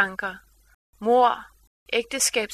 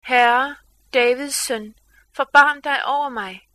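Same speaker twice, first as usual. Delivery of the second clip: a louder pleading call, read from scripture; crying out to the Lord; 5 dB louder than usual. Acted. Canaanite woman calls out to Jesus for mercy, a mildly raised plea. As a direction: lift the voice as the woman cries for mercy. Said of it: "råbte og sagde".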